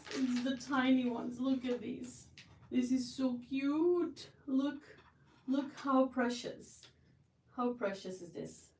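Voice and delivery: cooing. Real, not acted. Cooing over tiny breads.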